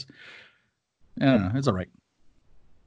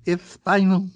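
amused mock repeat; 8 semitones higher, 5 dB louder, slower than usual. Repeating the joke line.

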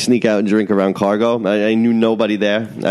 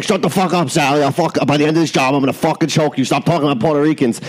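mild angry coworker; 4 semitones higher than usual. Retold or imitated. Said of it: "That was angry Puerto Rican man".

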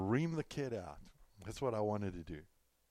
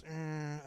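imitated distracted hum; 7 semitones higher, 4 dB quieter than usual. Imitates the driver turning, distracted.

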